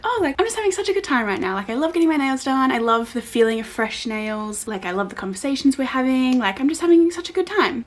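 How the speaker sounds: high, bubbly, overjoyed gush; gushing happy. Retold or imitated. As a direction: gush like you're having the best time. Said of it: "and I was like".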